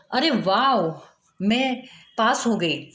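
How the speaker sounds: mildly delighted, with a drawn-out wow; happy exclamation. Shown as a demonstration. Teacher acts out a student announcing she has passed, mildly happy. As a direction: share good news with understated joy. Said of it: "जब आप खुश होते हैं ... बड़े खुश होकर बताएंगे".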